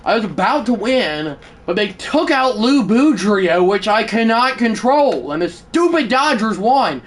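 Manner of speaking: real simmering frustration; furious. Real, not acted. Gamer complaining that the Dodgers won, furious. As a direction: vent it as an aggrieved complaint. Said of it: "and I am furious right now".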